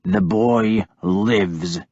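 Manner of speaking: slow low snarl. Acted. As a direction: growl it through clenched anger. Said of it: "I snarled at him".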